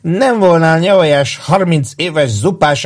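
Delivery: put-on very high whoop, then slow drunken rant; loud drunk whoop into slow ramble. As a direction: whoop wildly, then drag the words.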